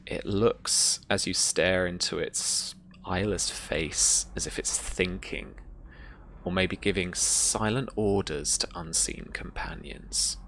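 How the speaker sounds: measured, deliberate scene-setting; unhurried storytelling, phrase by phrase; game master narration. Acted. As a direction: let the menace hang in the pauses.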